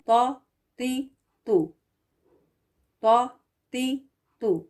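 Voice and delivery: تو تی تو heavy, lips spread. Shown as a demonstration. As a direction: say تو full and heavy, no rounding. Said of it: "صحیح pronunciation کیا ہے". (صحیح ادائیگی، موٹی آواز)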